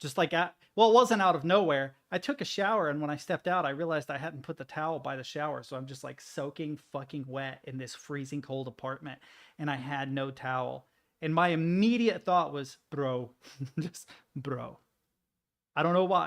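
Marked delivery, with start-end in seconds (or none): 12.9-14.8 put-on Arabic accent, trilled r in "bro". Retelling a thought after a shower with no towel, in a put-on Arabic accent. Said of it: "I said bro in an Arabic accent".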